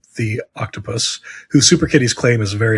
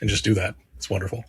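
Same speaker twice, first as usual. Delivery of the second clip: whisper; 3 semitones lower, 7 dB quieter than usual. Real, not acted. Confiding about naps alone.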